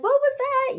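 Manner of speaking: retold yell. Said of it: "He's, like, yelling at neighbors".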